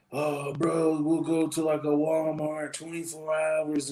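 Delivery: high, drawn-out imitation of pleading friends; pleading homies. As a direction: mimic the homies, stretching the words out. Imitating drunk passenger's friends pleading.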